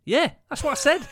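high, loud caricatured mate voice; mock mate. Retelling Pav's defence, high loud caricature. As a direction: play him as a dopey loud mate. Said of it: "He went".

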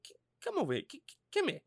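soft, stammering sweet-talk; seductive coaxing. Acted. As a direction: lure her over, hushed and teasing. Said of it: "Just tell her, like".

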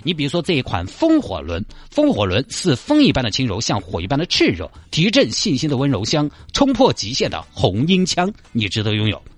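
hammy TV sales pitch; infomercial. Acted. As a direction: sell it like a TV ad.

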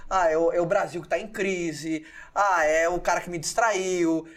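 drawn-out mock excuses; blame-shifting excuses. Host voicing someone who blames outside forces, mock complaining. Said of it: "você terceiriza a responsabilidade".

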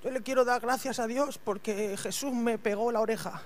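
anciano de broma, bajito y pausado; viejo Malco. Retold or imitated. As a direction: imita a un viejo dando testimonio. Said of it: "El viejo Malco". (parodia de anciano agradecido, en voz baja)

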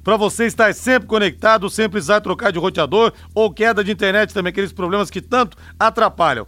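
upbeat radio ad read; infomercial. Acted. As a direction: sell the plan like a commercial. Reads sponsor ad on air.

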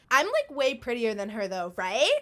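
retold snide remark, a bit loud; mock not-a-whisper. Ex-girlfriend to his friend within earshot, mildly loud mock whisper. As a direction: imitate her pretend whisper, said to be overheard. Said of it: "fucking said this so loud".

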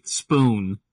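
"spoon" with the vowel held long; overlong word. Shown as a demonstration. Explaining the accent to co-host, "spoon" drawn out long. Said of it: "a whole h-, second and a half".

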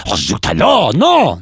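high, exasperated French officer correcting; French language police. Acted. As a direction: correct the parrot in hammed-up French, high-pitched. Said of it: "imagine the language police turning up".

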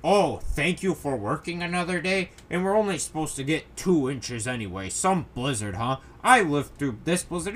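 mildly mocking snark; lightly put-on sneering sarcasm; snarky. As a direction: imitate a sarcastic online commenter. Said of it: "one snark douchebag was like".

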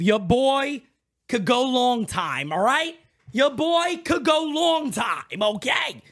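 slow, stretched brag; fired-up streamer bragging he can go long; pumped-up boast. Real, not acted. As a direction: hype it up, drawing out the words. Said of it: "That's how pumped up I am".

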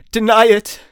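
high, loud ethereal cry; spirit's cry. A narrator's reading. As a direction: cry out commandingly. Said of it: "cried the spirit".

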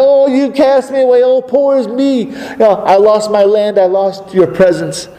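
preacher mocking Cain's self-pity to God. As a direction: ham up a sulky poor-me lament. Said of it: "He said".

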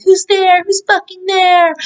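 mock alarmed challenge. Startled dad challenging an unknown voice, mock alarm, high. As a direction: call out high at an unseen intruder.

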